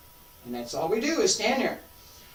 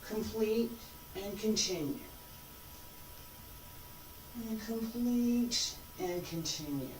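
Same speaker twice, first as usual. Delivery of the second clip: calm cues; 6 dB quieter than usual. Shown as a demonstration. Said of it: "Show you".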